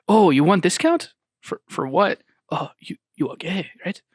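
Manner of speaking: lightly imitated Korean accent, knowing; a hint of a Korean shopkeeper teasing. Second shopkeeper quizzes the customer, light Korean accent. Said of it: "he's just an old Korean guy".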